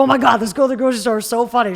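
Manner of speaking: loud, fast, delighted gush; excited retelling. Retold or imitated. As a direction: gush about someone hilarious you met. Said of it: "They're gonna be like".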